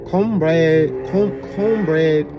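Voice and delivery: put-on drawn-out Asian-accented pronunciation of "cornbread", dropping the R; imitated Asian accent. Vlogger mimicking a criticized soul food video, imitated Asian accent. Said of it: "That is definitely an Asian accent".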